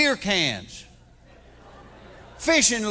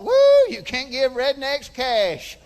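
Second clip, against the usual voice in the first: laughing tourist; 5 semitones higher, 6 dB louder, slower than usual. Retold or imitated. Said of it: "and had the thought".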